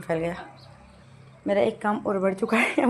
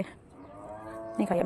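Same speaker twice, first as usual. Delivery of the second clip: very slow whispered repeat of नहीं खाई है, much softer; whispered echo; 6 dB quieter, much slower than usual. Real, not acted. Vlogger echoing to herself that she hasn't eaten the leaves, slow whisper. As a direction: trail off into a slow whisper, nहीं खाई है drawn out.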